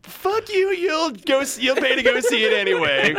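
high manic cartoonish voice; Jim Carrey impression. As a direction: rant like a rubber-faced comic. Jim Carrey style ranting.

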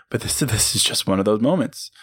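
breaking into a laugh mid-line. Retold or imitated. Host shows listeners how to laugh off a slip, laughing. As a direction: chuckle through "this is just one of those moments". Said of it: "you laugh at yourself and say".

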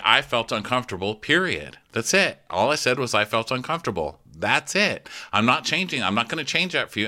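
imitated stubborn stand, emphatic short statements; firm insistence. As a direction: dig in and refuse to budge. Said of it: "stick to her guns and say".

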